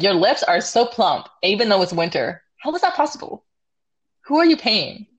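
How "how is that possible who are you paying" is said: squeaky high gushing voice; high mock disbelief. Real, not acted. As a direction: gasp it out in a high voice. Mock-envious compliment.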